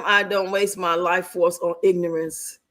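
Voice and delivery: low, put-on educated voice. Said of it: "higher learning voice".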